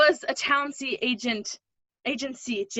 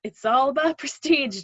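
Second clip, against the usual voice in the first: laughing; 3 semitones higher, 3 dB louder than usual. Acted. Laughing while teasing Jim.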